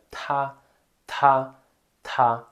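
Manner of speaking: tá with a puff of breath on the t; aspirated ta. Shown as a demonstration. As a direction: blow out air on tá. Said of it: "Você vai assoprar".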